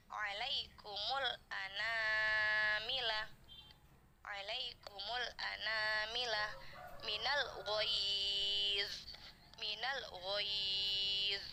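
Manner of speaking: slow, drawn-out tajwid recitation; Quran recitation. Shown as a demonstration. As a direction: chant the verse slowly, every vowel stretched. Recites the verse for students. (bacaan tartil yang pelan)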